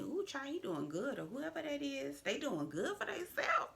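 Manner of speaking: high breathy gossip whisper. Real, not acted.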